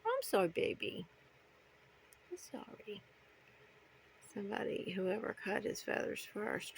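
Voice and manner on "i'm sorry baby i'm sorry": whispered apology. Real, not acted.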